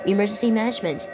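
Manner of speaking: steady, urgent weather-bulletin read; emergency alert read. Acted. Gamer reads the tornado warning to viewers like a broadcast alert.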